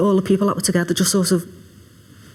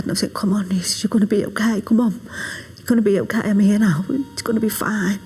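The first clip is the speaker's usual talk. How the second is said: a half-whispered, tender plea; soft reassurance; 2 semitones higher than usual. Retold or imitated. Mother at her wounded son's side, whispered comfort. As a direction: comfort a hurt son, hushed and soft. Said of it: "I just put my hand under his head".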